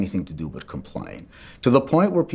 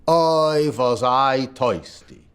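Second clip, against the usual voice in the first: put-on old man's satisfied sigh; 3 semitones higher, much slower than usual. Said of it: "he goes".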